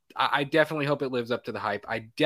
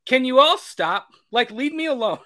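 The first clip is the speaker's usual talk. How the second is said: whiny tired Michael; 11 semitones higher, 5 dB louder than usual. Retold or imitated. Voicing weary Michael.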